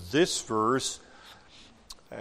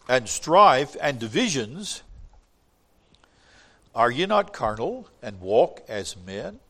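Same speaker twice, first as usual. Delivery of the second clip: scripture reading. Acted. Reads scripture aloud.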